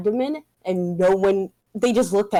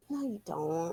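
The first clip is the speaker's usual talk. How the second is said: deadpan retort; 10 dB quieter than usual. Retold or imitated. Deadpan retort after mock confession.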